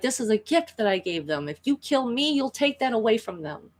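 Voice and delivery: acted begging, pitch lifted; pleading. Villain pleads with his attacker to spare him, mild begging. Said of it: "literally begging for his life".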